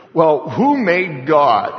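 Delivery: slow, loud sceptic's challenge; mock challenge. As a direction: pitch it up and draw out the question.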